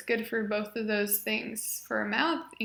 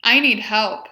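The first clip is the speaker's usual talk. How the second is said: each phrase spoken much louder and clearly; modeled phrases; 2 semitones higher, 10 dB louder than usual. Shown as a demonstration. Therapist modeling functional phrases for the patient, loud and clear. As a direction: project every phrase for the patient to copy. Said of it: "So I will say the phrase".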